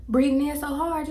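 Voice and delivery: high squeaky laugh, gasping for air; laughing so hard the words wheeze out; breathless laughing. Retold or imitated. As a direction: laugh until you can't breathe. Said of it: "you ever laugh so much you couldn't breathe?".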